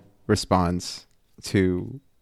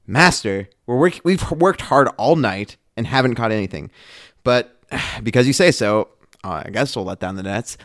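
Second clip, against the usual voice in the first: louder, reluctant sigh of a tired fisherman; begrudging; 2 semitones higher, 4 dB louder than usual. Shown as a demonstration. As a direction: give in grudgingly, with a sigh. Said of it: "I'm gonna do my best in my mind what this sounds like to me".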